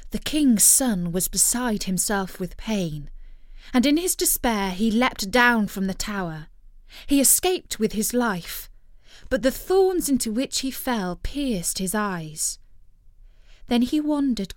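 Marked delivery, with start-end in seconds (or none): none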